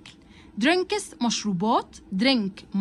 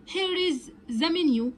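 slow model reading; 5 semitones higher, much slower than usual. Shown as a demonstration. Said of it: "waiter line read slowly".

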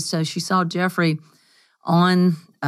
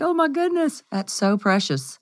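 delighted gush; 5 semitones higher, 3 dB quieter than usual. Retold or imitated. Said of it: "I was like".

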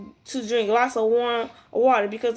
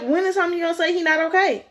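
exasperated; 5 semitones higher, faster than usual. Real, not acted. Exasperated outburst.

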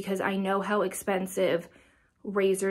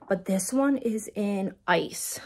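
whisper; slower than usual. Real, not acted. Showing lip gloss shades.

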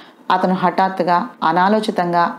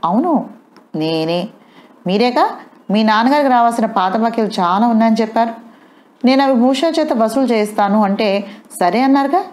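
higher, pointed interrogation; challenging; 4 semitones higher than usual. Acted. Wife confronts husband, demanding answers. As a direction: pin him down, question by question. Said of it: "నిలదీస్తున్నట్టుగా అడిగింది".

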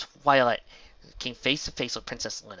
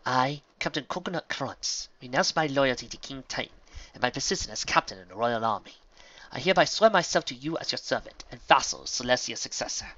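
formal oath of allegiance; ceremonious; 3 semitones higher, 4 dB louder than usual. A narrator's reading. Mayor swears herself to Twilight as vassal, ceremonious. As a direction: declare it solemnly, like swearing fealty. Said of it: "her voice taking on a ceremonious turn".

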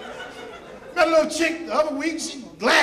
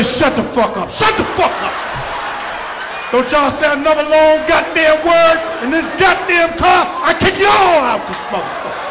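angry shout. Retold or imitated. Dad yelling at his stuttering family in the car, furious shout. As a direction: yell at the whole car. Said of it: "I said".

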